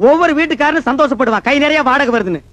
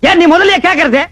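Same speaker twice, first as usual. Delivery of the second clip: indignant snap down the phone; irritated retort; 2 semitones higher, 4 dB louder than usual. Acted. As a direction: throw the blame straight back at the caller. Phone quarrel with wrong-number caller. (எரிச்சலுடன் பதிலடி)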